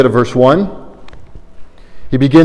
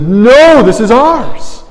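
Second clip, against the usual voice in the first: demons' voice; 10 semitones higher than usual. Acted. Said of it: "the demons ... would have said".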